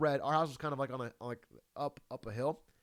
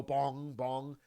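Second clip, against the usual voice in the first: low lazy bong of a clock tower; imitated clock bong; 5 semitones lower, 4 dB quieter than usual. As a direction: mimic the clock chime, a little flat. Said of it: "it would go".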